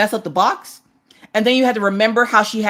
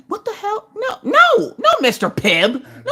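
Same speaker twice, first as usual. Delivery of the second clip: high squeal of laughter through the words; laughing-crying disbelief; laughing hard; 13 semitones higher than usual. Real, not acted. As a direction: crack up, pitch flying high. Laughing at the cereal names.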